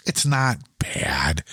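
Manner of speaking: slow reassuring whisper. Real, not acted. Telling the co-host the crack is minor, in a slow whisper. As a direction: play it down in a whisper.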